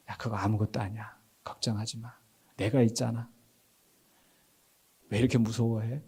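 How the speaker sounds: soft, low, comforting voice; tender reassurance. Acted. Jesus calming disciples in the storm, tender reassurance.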